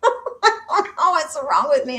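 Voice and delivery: laughing at herself. Real, not acted. Laughs at her own silliness.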